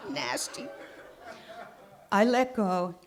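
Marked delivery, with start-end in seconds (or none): 0.1-0.7 laughing disgust. Real, not acted.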